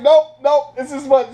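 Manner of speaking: high, loud mock refusal; girlfriend refusing. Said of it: "She was like".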